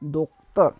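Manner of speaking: docteur said dok-ter; French docteur. Shown as a demonstration. Teacher repeating for students, French docteur. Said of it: "In French we will say docteur".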